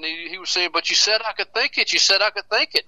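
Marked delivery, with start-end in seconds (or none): 0.7-1.9 higher pitched mock protest, THINK stressed; retold yell of a man being arrested, higher. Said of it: "Tudor Bill was yelling". 1.9-2.8 the arrested man keeps protesting up high; protesting yell. Retold or imitated. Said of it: "Tudor Bill was yelling".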